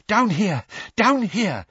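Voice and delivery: high, loud breathless urging; panting. A narrator's reading. Weasley hurrying Harry down the steps, panting. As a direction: call it out while panting. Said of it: "panted Mister Weasley".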